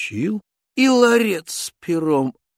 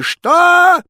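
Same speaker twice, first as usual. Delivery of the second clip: higher, louder slow roar; tsar shouting; 7 dB louder, much slower than usual. Acted. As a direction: bellow it in royal rage. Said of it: "закричал он".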